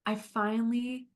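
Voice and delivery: gentle, unhurried guiding voice; calm coach leading a visualization; guided visualization. Acted. Leads a visualization.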